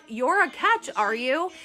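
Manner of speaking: sarcastic. Retold or imitated. Sarcastic reply to the boastful man.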